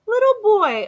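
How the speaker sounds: high, surprised exclaim. A narrator's reading. Amu surprised to find a boy at her door. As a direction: gasp it out in delight.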